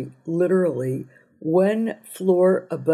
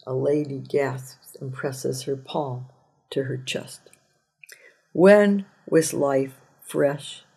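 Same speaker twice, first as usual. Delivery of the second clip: poetry reading; 2 semitones lower than usual. Acted. Poem reading.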